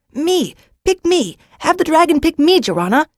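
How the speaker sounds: put-on boy begging the girl to choose him; eager begging boy. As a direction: plead to be picked. Boy begs to be chosen.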